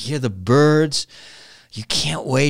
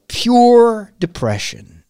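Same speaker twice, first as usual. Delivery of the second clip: high, very slow and louder; dramatic despair; 9 semitones higher, 5 dB louder, much slower than usual. Real, not acted. Podcaster summing up bleak school literature, dramatically despairing. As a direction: stretch it out as a weighty verdict.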